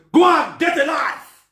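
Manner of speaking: slow dismissive shout; scolding shout. Acted. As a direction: bark it out slowly.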